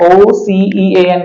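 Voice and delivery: drawn-out letter spelling; careful slow spelling; spelled slowly. Shown as a demonstration. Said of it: "उसी तरह से ओसीईएएन है".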